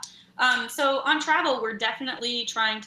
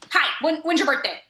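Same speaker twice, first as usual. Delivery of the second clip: put-on kid's blunt question; 4 semitones higher, 5 dB louder than usual. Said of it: "the first thing they say".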